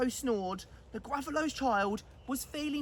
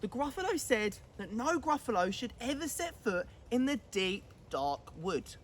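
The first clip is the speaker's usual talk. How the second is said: storybook narration. A narrator's reading. Narrator reads to the listening child in a storybook voice. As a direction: tell it like a bedtime story, hushed on dark wood.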